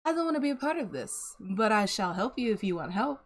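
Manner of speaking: casually acted-out hands-off attitude; politely opt out, as if it's no concern of yours; nonchalant. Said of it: "like, nonchalant kinda approach to it".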